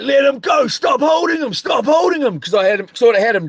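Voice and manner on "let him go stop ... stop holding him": mock shouted plea; retold crowd shouting. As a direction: call out like the crowd pulling them apart. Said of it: "everyone was like".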